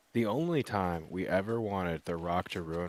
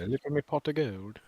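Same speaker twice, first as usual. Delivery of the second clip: put-on Irish stereotype accent; 6 semitones higher than usual. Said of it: "She'd be like".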